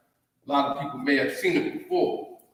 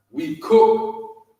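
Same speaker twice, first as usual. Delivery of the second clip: mock high voice; 5 dB louder than usual. Acting out how others copy.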